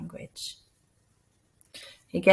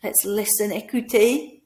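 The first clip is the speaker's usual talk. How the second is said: calling the class; 3 dB louder than usual. Shown as a demonstration. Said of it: "You could say".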